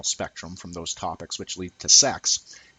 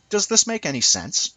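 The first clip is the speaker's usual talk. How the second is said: much higher, louder mock-plaintive question; mimicking a woman's question; 9 semitones higher, 4 dB louder than usual. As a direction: ask it in a mocking imitation of an unsure woman. Imitating women asking him.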